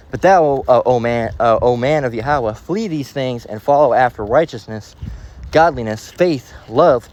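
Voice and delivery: slow, solemn Bible reading; measured reading of scripture. Acted. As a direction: read the verse with weight. Reads scripture aloud.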